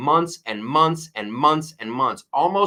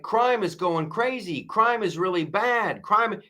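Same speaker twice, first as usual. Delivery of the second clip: higher, hammed-up Trump-like blurting; imitating Trump; 8 semitones higher than usual. Host mimics Trump at the debate, hammed-up emphatic. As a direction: lightly voice Trump hammering one word. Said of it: "he's like".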